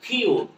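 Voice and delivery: "কিউট" with long U and no final E; silent final E. Shown as a demonstration. Teacher shows learners what to say, "কিউট" with silent E. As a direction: end "কিউট" on the T, E left silent. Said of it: "ইয়ের উচ্চারণ করব না".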